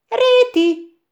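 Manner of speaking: high, sharp surprised echo of a name. A narrator's reading. Tücsök hearing Réti's name, surprised. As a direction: snap the name back in disbelief. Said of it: "kérdezett vissza Tücsök".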